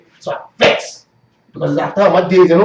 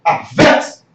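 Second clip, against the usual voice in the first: higher-pitched indignant outburst; real vexation; 4 semitones higher, slower than usual. Real, not acted. Fuming about the hospital system, higher indignant rant. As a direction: let the vexation rise in the voice. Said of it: "I vex. I really vex".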